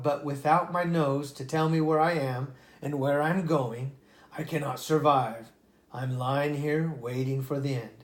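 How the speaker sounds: lively read-aloud storytelling voice; storybook narrator giving each animal a voice; story narration. A narrator's reading. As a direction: read it like a bedtime fable. Reads a fable aloud.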